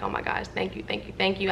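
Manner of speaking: soft, whispered thanks; breathless grateful whisper to God; tearful whisper. Retold or imitated. Thanking God after getting home, soft whispered relief.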